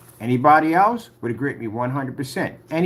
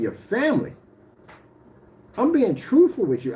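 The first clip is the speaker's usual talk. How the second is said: higher-pitched, heated warning; heated threat; 6 semitones higher than usual. Real, not acted. Warning Jamie what his family would do, heated. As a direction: lay down a deadly serious warning. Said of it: "I don't really talk like this on camera".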